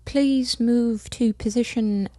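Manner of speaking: a weak, slow British accent attempt; English accent. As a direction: try a British voice, slowly. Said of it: "I'm fucking up my accents here".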